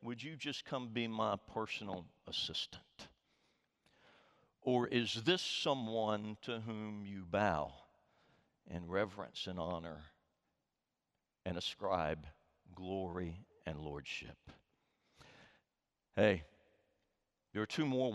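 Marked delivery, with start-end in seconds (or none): 0.0-3.1 lightly condescending, softer; a faint hint of looking down on him. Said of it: "with condescension". 4.6-14.4 reverent hush. Real, not acted. Reverent close of point.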